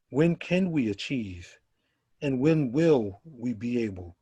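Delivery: slow, measured spoken-word delivery with long pauses; poem recitation. Acted. Poet performing his protest poem for the poetry night, slow and solemn. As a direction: let each repeated line land heavy and slow.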